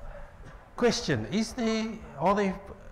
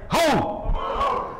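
higher shouted call; congregation call; 10 semitones higher than usual. Shown as a demonstration. Congregation repeating the preacher's call, shouted higher. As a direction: shout it back as a crowd. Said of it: "Everybody say".

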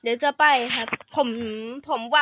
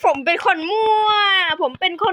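high, whiny pretend crying; mock wail; 4 semitones higher than usual. Player scolded for bad driving, mock wailing. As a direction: wail it in playful self-pity.

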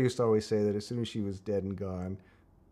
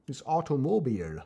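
whispering; 2 semitones higher than usual. Pretend. Whispered aside.

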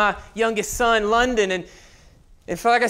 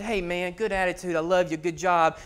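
soft, lower fatherly encouragement; tender praise; 3 semitones lower, 4 dB quieter than usual. Retold or imitated. Father quietly encouraging his son, soft and tender. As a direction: praise him gently.

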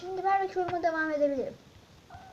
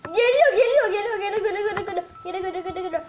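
half laughing, half panicking; excited alarm; 2 semitones higher, 7 dB louder, faster than usual. Real, not acted. Gamer sees monster coming, loud laughing alarm. Creature coming after him.

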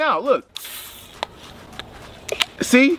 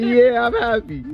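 slow, drawn-out toddler impression; lightly voiced happy toddler; imitated little girl; slower than usual. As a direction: mimic a small child, stretching the words. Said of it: "She said".

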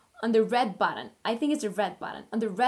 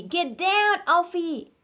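higher, louder alarmed call; crying out; 7 semitones higher, 5 dB louder than usual. Acted. Mommy seeing Alfie at the window, shouting. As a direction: call out in alarm to a climbing child. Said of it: "cried Mommy".

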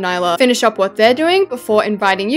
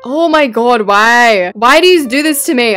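exasperated; 5 dB louder than usual. Real, not acted. Spiders again.

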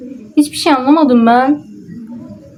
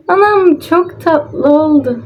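slow cooing again; cooing delight; 5 semitones higher, slower than usual. Real, not acted. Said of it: "repeats the coo".

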